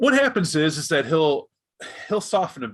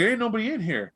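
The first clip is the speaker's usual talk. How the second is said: higher, puzzled call; raised confused kid voice; puzzled guard; 6 semitones higher than usual. Acted. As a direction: search the empty van.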